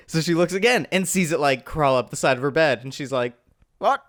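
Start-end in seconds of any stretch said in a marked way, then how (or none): 3.8-4.0 put-on high, soft, stammering old-lady voice; startled old lady. Voices alarmed old lady in retelling.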